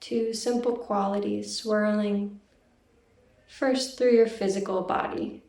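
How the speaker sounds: calm, even meditation guiding with long pauses; guided meditation. Real, not acted. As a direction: gently lead listeners inward, leaving silence between phrases. Leads a meditation.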